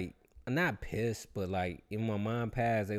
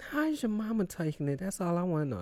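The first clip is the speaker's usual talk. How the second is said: lightly higher sympathetic voice; a hint of the consoling dude; imitating the dude; 6 semitones higher than usual. The dude asks about his mama, lightly higher sympathy. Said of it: "He was like".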